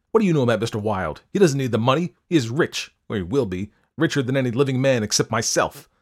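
loud and fast, losing control; angry. Acted. Angry outburst continues.

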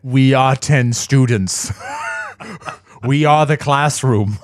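mock unison chant; students in unison. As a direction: chant like a single unit. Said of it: "As if they are a single unit".

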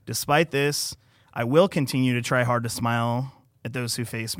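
steady, earnest read of a personal post; reading aloud. Acted. Guest reads his post aloud to the podcast host, earnest and steady. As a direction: read your own words to the listeners.

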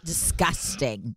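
slow, drawn-out mock revulsion; mock disgust. Joking about cheese-eating English, slow mock disgust. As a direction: relish the disgust, slowly. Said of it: "I get mad at them".

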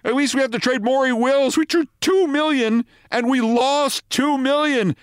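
high-pitched panicky rant; terror turned to anger. A narrator's reading. Manager raging at his laughing colleague, high angry rant. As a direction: rail at him, voice pushed way up. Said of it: "Bavasi's terror turned to anger".

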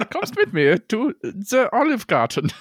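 high mock-German invitation; hammed-up German accent. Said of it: "getting more German".

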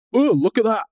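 high mock swoon "Oh, look at that."; swooning bystander. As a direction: gush it like a dazzled fan. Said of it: "someone in the background going".

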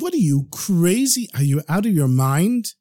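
incredulous outburst, starting high; mildly voiced alarmed disbelief; wife freaking out. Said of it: "His wife was freaking out".

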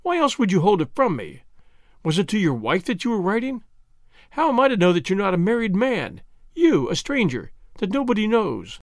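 high, rising jealous questioning; hurt, accusing; jealous accusation. Acted. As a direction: pile suspicion on him.

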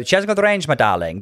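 a hint of a grand old diva; a famous diva's voice. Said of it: "her inflection and her delivery was entirely the diva".

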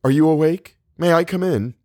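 high, eager questions; calling out. A narrator's reading. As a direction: call through the door to wake someone. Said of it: "Now Theodora pounded on the connecting door".

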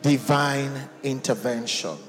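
loud rallying call to prayer; full-voiced preaching. Real, not acted. Preaches, leading congregation in prayer.

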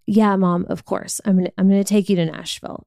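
reluctant, sulky yes; grudging yes to mom; begrudging agreement. Retold or imitated. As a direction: agree to it like a bratty daughter. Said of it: "So begrudgingly, being, like, a freaking brat about it".

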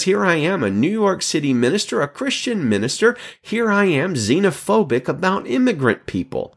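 self-reproach. Retold or imitated. Keller shocked at himself.

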